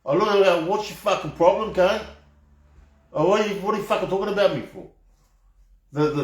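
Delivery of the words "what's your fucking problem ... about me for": raised, higher mock yell at the men in the car; retold angry yell. Biker retelling how he yelled at two men in a car, angry. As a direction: fling it back at them, higher and fast.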